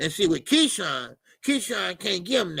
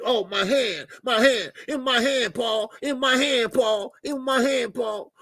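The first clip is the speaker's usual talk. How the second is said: mock complaining fighter; 3 semitones higher than usual. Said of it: "He got so many excuses".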